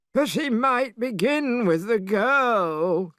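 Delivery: high, slow worried cry; a high voice fretting to Monkey about the girl; Pigsy crying out. A narrator's reading. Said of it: "cried Pigsy".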